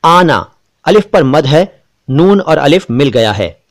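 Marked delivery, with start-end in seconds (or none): 0.0-0.5 आना said slowly with a long open आ; slow clear word demo. Shown as a demonstration. Urdu teacher pronouncing आना slowly for the class. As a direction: read out आना slowly for learners. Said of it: "देखिए, मैं जरा जल्दी-जल्दी बोलूंगा".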